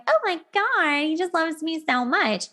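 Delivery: mock swooning. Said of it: "And I'm like".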